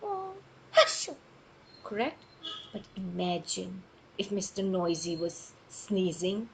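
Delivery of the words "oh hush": gentle sneeze. Shown as a demonstration. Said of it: "how do they sneeze?".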